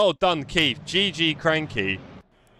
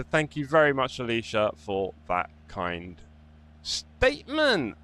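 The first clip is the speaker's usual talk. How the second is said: milk the sarcasm, stretching each word; sarcastic thanks; 2 semitones lower, 4 dB quieter, slower than usual. Acted. Streamer thanking a chatter, slow, mock-grateful drawl.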